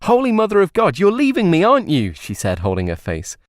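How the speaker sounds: mock hysterics, wailing at him. A narrator's reading. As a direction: melodramatic high wail of a jilted lover. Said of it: "she wailed".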